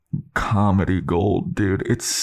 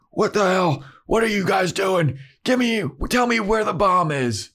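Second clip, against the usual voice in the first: frantic Xander; 11 semitones higher than usual. Retold or imitated. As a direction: shake him for answers in a high voice. Xander interrogating zombie.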